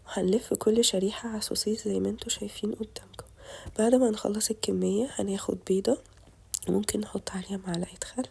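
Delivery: tired voice. Real, not acted. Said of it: "سامحوني لو صوتي تعبان شوية".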